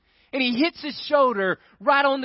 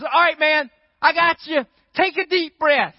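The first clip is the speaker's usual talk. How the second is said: coaxing guy; 6 semitones higher, 5 dB louder than usual. Retold or imitated. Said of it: "the guy goes".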